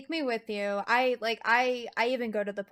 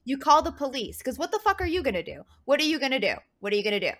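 louder, fast insistent scolding; firm scolding; 4 semitones higher, 4 dB louder, faster than usual. Retold or imitated. Girlfriend scolding her boyfriend about a stranger child, loud and insistent. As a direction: drill it in, repeating the question.

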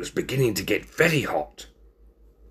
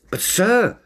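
high, mild interjection; gentle high protest; 12 semitones higher, 3 dB louder than usual. Acted. Binnicky objecting to the ringmaster's plan, gently. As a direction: break in gently, pitched high. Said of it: "said Binnicky gently".

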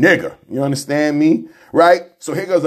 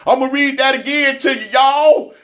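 pushed up higher to grab the room; higher, insistent repeat; 8 semitones higher than usual. Shown as a demonstration. Telling his listeners he'll reread it, pitched higher and insistent. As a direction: say it again, higher, so y'all listen.

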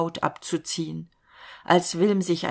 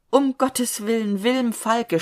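raised, pleading cry of despair; desperate cry; 5 semitones higher, 3 dB louder than usual. A narrator's reading. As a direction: Kaspar begs his friend to spare the cow, desperate cry. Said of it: "schrie er mit der Stimme der Verzweiflung".

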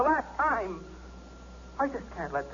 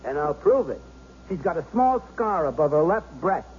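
forceful insistence; 4 dB louder than usual. Acted. Husband proving to gunman, forcefully.

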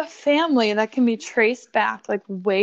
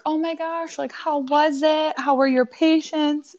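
higher-pitched, eager questions; mildly gushing retold greeting; eager questioning; 5 semitones higher than usual. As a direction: ask with keen, raised-pitch curiosity.

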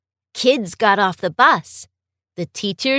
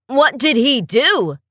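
demanding; 4 dB louder than usual. Acted. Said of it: "the boy's dad demanded".

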